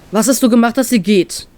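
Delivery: mildly tense, direct question; restrained anger. Acted. Crewmate confronts the captain about her leaving, anger kept in check. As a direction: ask it straight out, holding anger back. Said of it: "versucht dabei nicht wütend zu klingen".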